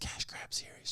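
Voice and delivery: soft, unvoiced whisper.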